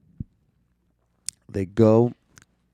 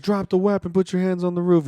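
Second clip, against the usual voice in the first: mock cop command; 12 semitones higher, 3 dB louder than usual. Retelling a cop ordering a man out.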